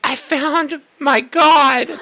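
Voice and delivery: high, loud, drawn-out imp cry; imp's voice. Acted. Imp announcing it found its god, high and exultant. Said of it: "Wisp's voice, he goes".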